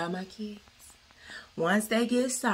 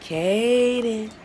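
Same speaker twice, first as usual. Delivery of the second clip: calling out; 3 semitones higher, 7 dB louder than usual. Real, not acted. Waking kids on Christmas.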